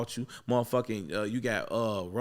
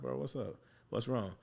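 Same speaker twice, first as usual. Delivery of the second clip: softer, concerned retelling; retold gentle check-in; 2 semitones higher, 4 dB quieter than usual. Barber checking on an upset boy, soft and gentle retelling. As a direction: drop the volume to coax him.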